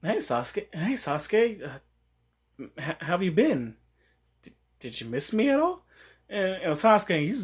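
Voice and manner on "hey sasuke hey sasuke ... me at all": hesitant, halting hello; lightly acted nervous small talk; tentative greeting. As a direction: feel your way shyly into the question. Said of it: "instead of, like, pouncing Sasuke, she walks over".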